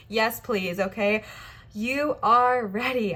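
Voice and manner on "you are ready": breathless and slow; words pushed out short of breath. Real, not acted. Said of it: "I'm, like, out of breath".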